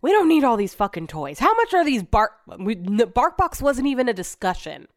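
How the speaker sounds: a mock-angry outburst over too many dog toys; irritated rant. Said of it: "and so he goes".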